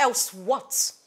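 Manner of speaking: pointed, defiant question; defiant challenge. Acted. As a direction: dare him to go on. Challenging a threat.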